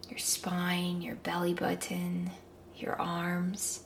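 whispering. Acted. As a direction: whisper each body part. Whispered body scan.

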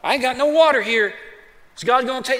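whiny, complaining voice; grumbling Israelites. Retold or imitated. Israelites grumbling to Moses, mock whiny complaint. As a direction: grumble like a people without water. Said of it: "They start grumbling".

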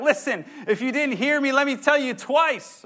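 a hint of a patient parent, laughing a little; parent in the room. Pastor voicing Paul as a parent repeating himself, mild laughing. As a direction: lightly play the parent who repeats. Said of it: "He's like the parent in the room".

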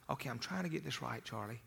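very hushed, barely voiced; imitated whispering. Calming angry Charlie with a soft answer, whispering. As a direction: drop right down to a near-whisper. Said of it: "And I'm whispering".

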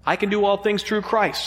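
weight on the final word "Christ", falling; stress on Christ. Shown as a demonstration. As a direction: land the verse on "Christ". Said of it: "emphasizing a different word each time".

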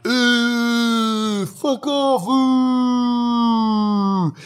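high mocking jeer; crowd booing. Drunk crowd jeering the winning couple, high mock boos. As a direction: jeer at the winners like a rowdy crowd.

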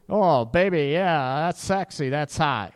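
mock swooning, dripping with sarcasm; sarcastic. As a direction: pretend to be impressed, clearly not. Woman's sarcastic reply to chewing date.

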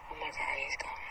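breathless, hushed relief; a scared woman hiding, whispering to herself; frightened whisper. Acted. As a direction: whisper it so nobody hears. Maria alone, hearing the intruder leave.

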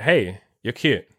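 slow, offhand pickup line; relaxed retold opener, no pressure; really casual. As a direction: say it casually, expecting nothing back. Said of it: "I was, like, really casual".

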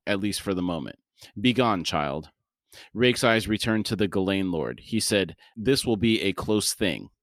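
measured audiobook-style reading; story narration. A narrator's reading. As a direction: read the scene aloud in deliberate phrases. Reads the novel aloud.

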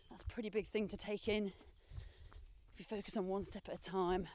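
talking mid-run; a bit breathless while running; while jogging. Real, not acted. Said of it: "time to run again".

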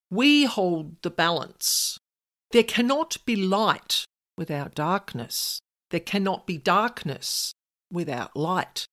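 slow, lightly voiced bold pronouncement; a hint of a solemn dark being, unhurried; bolder voice. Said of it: "in an even bolder voice".

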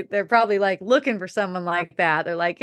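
ordinary talk

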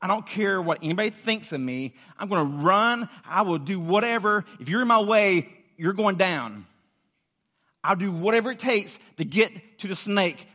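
urgent, insistent vow with punched words; desperate determination. Acted. Preacher voicing snakebite victims desperate for the cure, urgently determined. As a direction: act out someone determined to get through. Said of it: "the way people felt when they got bit".

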